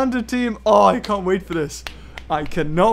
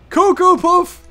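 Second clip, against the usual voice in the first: announcer call; 7 semitones higher, 5 dB louder, slower than usual. Pretend. Announcing creature in put-on voice.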